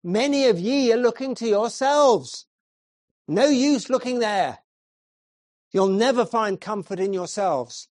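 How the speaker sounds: put-on light broad Essex accent, earnest; a hint of broad Essex. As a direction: preach with a touch of broad Essex. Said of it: "he said in a broad Essex accent".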